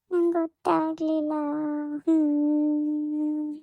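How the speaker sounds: crying while protesting innocence; tearful sobbing. Acted. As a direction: plead through tears, voice breaking. Scolded daughter breaks down crying.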